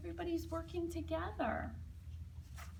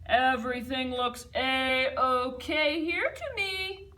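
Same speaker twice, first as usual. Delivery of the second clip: lightly voiced policeman; 8 dB louder, slower than usual. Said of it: "The policeman said".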